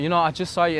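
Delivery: coming up slightly. Retold or imitated. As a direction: bring the voice up just a bit. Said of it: "they come up a little bit".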